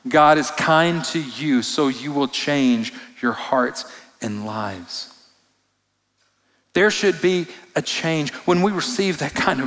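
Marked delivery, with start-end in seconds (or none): 0.1-5.1 slower second reading. Shown as a demonstration. Pastor rereads Paul's verse to the congregation, slow and deliberate. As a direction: read slowly, weighing each word "God is kind to you". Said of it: "I want to read that just one more time".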